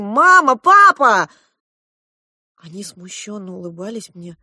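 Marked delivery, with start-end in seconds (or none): 0.0-1.3 high, loud calling out to parents; joyful cry. A narrator's reading. Girl reunited with her parents, crying out loud. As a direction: call out to mama and papa with joy.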